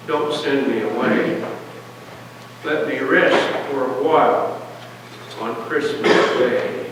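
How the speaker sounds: put-on a mild, understated plea from an old woman; pleading. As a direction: gently beg not to be sent away. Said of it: "her voice seemed to plead".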